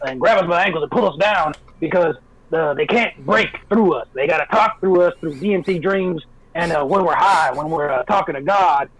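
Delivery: lightly voiced ranting conspiracy host; hint of a smoker's voice rant; Alex Jones voice. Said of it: "You gotta put your smoker's voice on".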